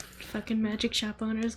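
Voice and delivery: laughing whisper. Real, not acted.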